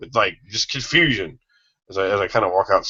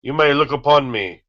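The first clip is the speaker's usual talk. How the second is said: grand godlike proclamation, raised pitch; booming arrogant alien overlord; 4 semitones higher, 3 dB louder than usual. Acted. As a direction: declare yourself a god to kneeling crowds. Proclaims himself a god.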